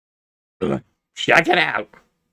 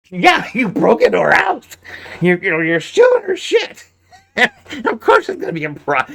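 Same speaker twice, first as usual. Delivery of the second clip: laughing while talking; 5 semitones higher than usual. Real, not acted. Laughing at the break-in story.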